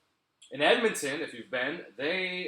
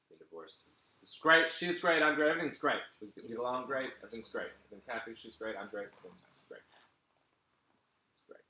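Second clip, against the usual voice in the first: forced cheer; 3 semitones lower than usual. Acted. Forced insistence on divorce.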